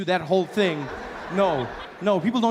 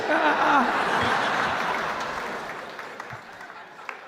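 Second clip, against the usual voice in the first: breathless laugh; 9 semitones higher than usual. Real, not acted. Laughing at own story.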